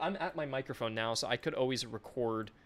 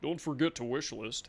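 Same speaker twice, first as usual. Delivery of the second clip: ad voice. Retold or imitated. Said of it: "I don't know why I'm talking like that".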